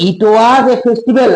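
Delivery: slow dictation. Shown as a demonstration. Teacher reading text slowly.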